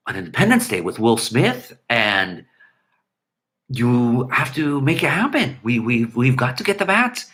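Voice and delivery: halting, stammering Goldblum imitation; lightly voiced Jeff Goldblum with broken pauses; a hint of Goldblum's stop-start delivery; Jeff Goldblum impression. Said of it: "let's see if I could do my Jeff Goldblum imitation".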